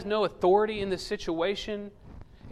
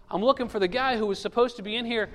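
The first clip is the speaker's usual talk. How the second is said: mild blubbering; 5 semitones higher, faster than usual. Acted. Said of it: "this kind of blubbering statement".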